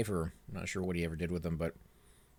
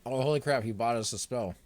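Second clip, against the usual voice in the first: mouth full; 2 semitones higher than usual. Real, not acted. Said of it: "I have a mouthful of food".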